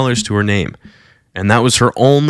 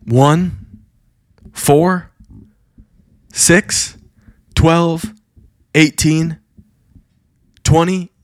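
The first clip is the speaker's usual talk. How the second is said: higher, slow, each number held apart; rising awed count; 5 semitones higher, slower than usual. Retold or imitated. Preacher reveals the baby's diseases to the crowd, higher and slow. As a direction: count them out one by one in awe.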